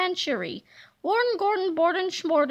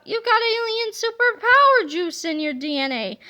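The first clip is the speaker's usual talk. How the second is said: higher, louder triumphant gloat; gloating villain; 6 semitones higher, 4 dB louder than usual. Acted. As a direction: savor having found his weakness. Villain gloats over discovery.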